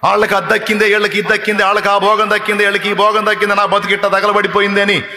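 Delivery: high, loud, driving sermon cadence; impassioned preaching. Real, not acted. Preacher voicing Mary to the congregation, in impassioned full-force preaching. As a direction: pound every line home like a revival preacher.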